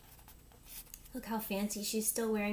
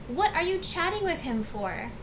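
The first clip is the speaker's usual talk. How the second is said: high-pitched exasperated demand; screaming at husband; 7 semitones higher than usual. A narrator's reading. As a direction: turn on your husband, voice raised high. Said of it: "Missus Welsh was screaming".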